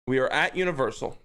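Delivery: brisk throwaway "We are at Universal"; quick casual repeat. Shown as a demonstration. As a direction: rattle off "We are at Universal" plainly. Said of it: "let me set the scene".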